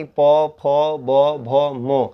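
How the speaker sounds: प फ ब भ म, lips pressed; sound demo. Shown as a demonstration. Teacher demonstrates lip sounds to class. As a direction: say the labials one by one. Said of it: "इन सभी का उच्चारण ओठ से होता है".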